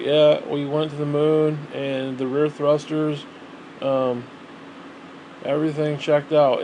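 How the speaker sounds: slow, flat, gloomy imitation of a press conference; mock-glum astronaut; depressed astronaut. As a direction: drag it out like reading a will. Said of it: "like they're reading somebody's will".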